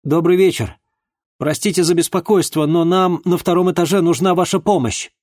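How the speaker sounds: polite shout at a neighbour's door; calling through a door. Acted. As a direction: call politely but loudly through a closed door.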